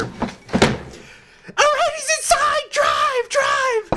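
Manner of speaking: very high, breathless, urgent whisper; high whispered "drive, drive"; hushed high girl urging. Retold or imitated. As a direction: hiss the getaway order like a kidnapper child. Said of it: "You just hear".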